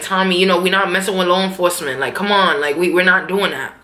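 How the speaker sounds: low, measured retelling of a talk-down; calming Ghost. Retold or imitated. Ghost talking Tommy out of it, calming.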